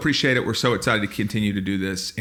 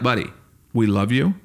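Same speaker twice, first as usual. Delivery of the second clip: mock pep talk. Friend reassuring Will before the fight, mock caring voice. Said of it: "you'd be like".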